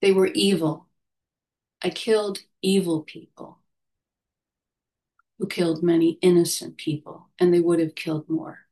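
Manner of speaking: firm, clear, each word set down. Retold or imitated. Old veteran tells chaplain, firm and clear. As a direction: state it flatly, no room for doubt. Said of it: "very firm tone of voice".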